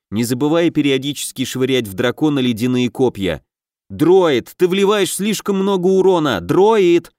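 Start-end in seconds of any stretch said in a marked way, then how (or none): 3.9-7.1 urgent warning shout. A narrator's reading. Raid leader scolds elf in battle.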